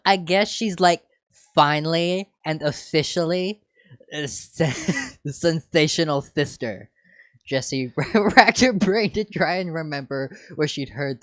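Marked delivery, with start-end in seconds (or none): 0.0-6.9 put-on valley girl voice. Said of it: "said the third voice".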